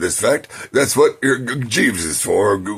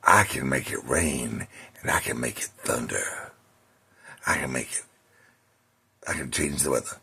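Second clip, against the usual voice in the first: boastful monkey; 7 semitones lower, 6 dB quieter than usual. Retold or imitated. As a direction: brag like a smug monkey. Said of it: "the monkey says to the donkey".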